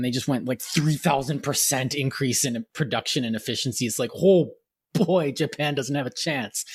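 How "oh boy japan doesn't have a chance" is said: cocky. Retold or imitated. Cocky wartime America voiced.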